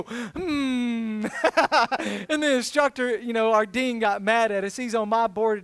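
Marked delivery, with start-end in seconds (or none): 0.0-1.3 mock hum. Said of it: "we go".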